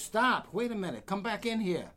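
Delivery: high, loud call to stop; mock shout. Manager calling the player back, loud and high. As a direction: call him back sharply.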